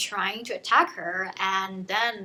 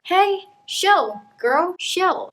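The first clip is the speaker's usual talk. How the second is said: mock-casual high teasing voice; voicing Mao; 8 semitones higher, 7 dB louder, much slower than usual. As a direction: brush her off lightly, higher. Mao voiced in book retelling.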